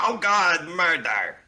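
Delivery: high, loud gasp of horror; hammed-up cry of murder; mock dramatic shout. Dramatic outburst over the story.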